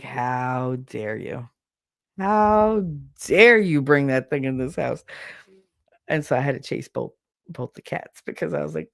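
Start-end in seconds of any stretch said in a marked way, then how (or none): 0.0-5.0 slow, drawn-out mock outrage; mock indignation. Two cats glaring at their owner over the duck, mock indignation. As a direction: play an affronted cat, stretching HOW DARE. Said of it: "looking at me like".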